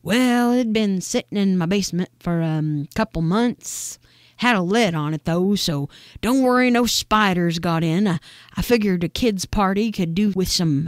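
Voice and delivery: lightly voiced folksy neighbor, hesitating over details; Miss Nora. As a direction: casually explain yourself as a slightly dotty neighbor. Neighbor Nora answers in character.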